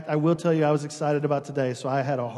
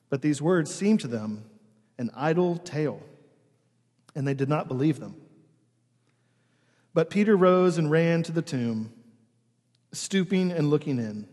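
measured gospel reading with pauses between phrases; solemn public Bible reading; scripture reading. Acted. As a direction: read scripture aloud to a congregation. Reads the gospel aloud to congregation.

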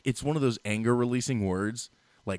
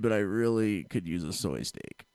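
put-on Californian accent. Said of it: "eighty percent of Californians".

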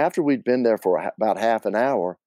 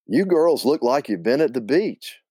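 put-on Southern man's thick Carolina accent; friendly opener in a North Carolina accent; 4 semitones higher than usual. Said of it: "said with a thick North Carolina accent".

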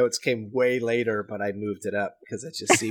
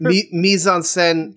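"mise en scène" said slowly and louder; slow repeat; 6 semitones higher, 5 dB louder, much slower than usual. Shown as a demonstration. Asked to say it again for Katie, slowly. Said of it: "Say, say that again and slowly".

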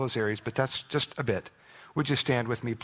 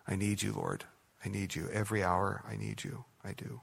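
softer, hushed plea to the Lord; quiet prayer; 2 semitones lower, 6 dB quieter than usual. Retold or imitated. Preacher voicing a believer's prayer, soft and humble. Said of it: "we sing and say and pray".

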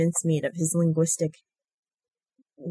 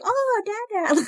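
put-on high squeaky baby voice; slower than usual. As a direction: coo it like a toddler. Baby toy voicing the ring.

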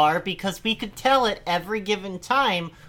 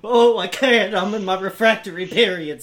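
snooty bored cat; 4 dB louder than usual. Retold or imitated. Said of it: "said the cat".

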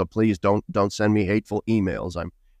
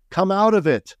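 urgent call; 10 semitones higher than usual. Acted. Preacher exhorting.

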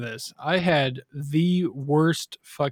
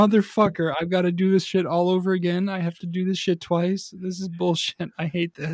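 higher pitched grumbling rant, fading down; pissed rant; 4 semitones higher than usual. Retold or imitated. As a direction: vent about redoing the morning. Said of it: "I was like".

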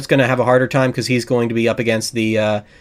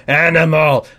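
mock-excited call, drawn out; imitated fan cheer; 3 semitones higher, 4 dB louder than usual. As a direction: imitate fans calling out a favorite. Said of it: "when they hear Muppets, go".

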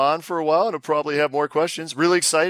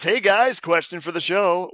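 radio show voice; 5 semitones higher than usual. Shown as a demonstration. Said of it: "I do my radio show voice".

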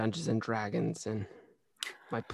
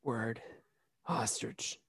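whisper; 11 dB quieter, slower than usual. Acted.

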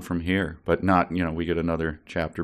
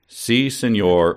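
put-on Puerto Rican accent; 3 semitones higher, 5 dB louder, slower than usual. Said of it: "Midge cackled in a thick Puerto Rican accent".

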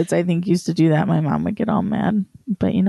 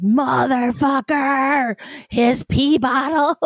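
slow, drawn-out disgust; disgusted mom; 7 semitones higher, much slower than usual. Retold or imitated. Mom finding dad's pee bottle, slow and disgusted. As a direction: drag out each word in disgust. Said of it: "she's like".

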